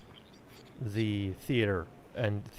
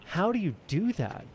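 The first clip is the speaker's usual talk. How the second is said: quoting an actor; 9 semitones higher than usual. Retold or imitated. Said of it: "he goes".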